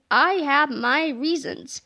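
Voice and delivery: slow, sly repeat; hint at a secret plan; sly, drawn out. Acted. Melvin teases the boys about his plan, slow and sly.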